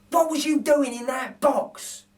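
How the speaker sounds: gently puzzled thief; puzzled burglar. Acted. Narrator voices Bill questioning the baby, puzzled. Bill's voice in read story.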